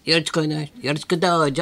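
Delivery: lightly voiced nasal Tsurutaro catchphrase; Tsurutaro impression. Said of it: "鶴太郎さんの真似してたからね".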